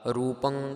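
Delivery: ਰੂਪੰ ending in a clear nasal; model pronunciation. Shown as a demonstration. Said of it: "ਪੱਪੇ ਨੂੰ ਟਿੱਪੀ ਲਗਾ ਕਰਕੇ ਪਾਠ ਰੂਪੰ ਕਰਨਾ". (ਰੂਪੰ ਟਿੱਪੀ ਦੀ ਆਵਾਜ਼ ਨਾਲ)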